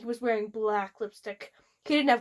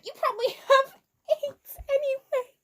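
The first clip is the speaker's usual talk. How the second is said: angry yell; 13 semitones higher than usual. Retold or imitated. Continuing the angry shout.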